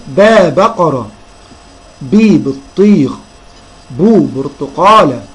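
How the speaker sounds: slow drill, long باء, بي, بو each before its word; teacher sounding out first syllables slowly; syllable, then word. Shown as a demonstration. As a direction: stretch "baa", "bii", "buu" ahead of بقرة, بطيخ, برتقالة. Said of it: "نقولهم تاني".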